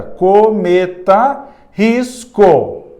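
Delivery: Cometa drawn out slowly, then risco; sounded-out comparison. Shown as a demonstration. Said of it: "É o mesmo som da palavra cometa". (Cometa bem devagar, depois risco)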